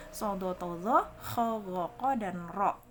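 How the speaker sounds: "Sodo, tozo, kho" with full, rounded heavy vowels; thick heavy letters. Shown as a demonstration. Teacher lists Arabic heavy letters, thick pronunciation. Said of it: "huruf-huruf tebal".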